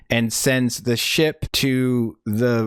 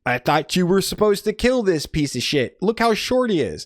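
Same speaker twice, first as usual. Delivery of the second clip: mock father; 7 semitones higher than usual. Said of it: "Father shows up and he's like".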